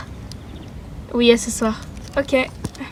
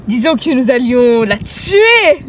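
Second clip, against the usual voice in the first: slow, louder sinister reply; slow smug threat; cool menace; 5 dB louder, slower than usual. Acted. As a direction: say it smugly. Villain answers coolly.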